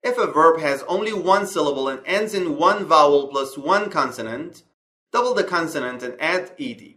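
slow, careful reading of an English grammar rule. Acted. Teacher reading the slide rule to students, slow and clear. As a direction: read the rule out slowly and clearly, word by word.

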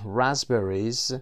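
"رازبریز" with no P and a Z before B; silent P, voiced S. Shown as a demonstration. Teacher reading fruit list to students, silent P in "رازبریز". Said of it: "پی تلفظ نمیشه".

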